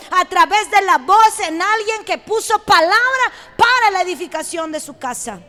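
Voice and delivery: insistent, repetitive sermon cadence; energetic preacher hammering the refrain; impassioned preaching. Acted. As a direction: drive each phrase home to the congregation.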